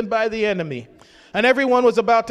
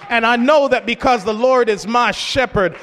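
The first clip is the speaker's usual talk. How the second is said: mildly raised, driving preacher voice; defiant declaration. Retold or imitated. Preacher as David vowing to pursue the enemy, forceful declaration. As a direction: declare it forcefully, hammering the key words.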